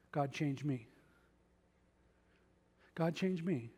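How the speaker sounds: soft, quiet plea; humble prayer. Shown as a demonstration. Preacher models the right prayer for the church, soft and sincere. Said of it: "Here's what I want you to pray".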